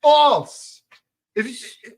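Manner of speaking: sudden loud, high shout; loud outburst. Real, not acted. Host rebutting the calorie myth, loud emphatic shout. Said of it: "I'm getting too loud".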